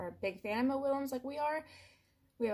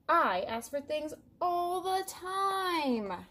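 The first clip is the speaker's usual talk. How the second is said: lightly voiced, bragging cartoon pigeon; a mildly hammed-up pigeon, puffed up and proud; boastful pigeon; 3 semitones higher, 6 dB louder than usual. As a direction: list it off like a show-off bird. Pigeon's long boastful rant.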